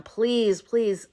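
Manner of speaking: mildly beseeching, drawn from a retelling; a touch of begging; pleading. Retold or imitated. Horton begging the monkeys to stop, pleading. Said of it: "Horton just keeps pleading with them".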